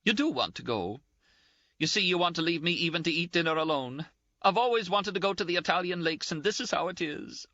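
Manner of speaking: high-pitched, indignant, close to tears; Ferguson's scolding. A narrator's reading. Ferguson voiced, self-pitying.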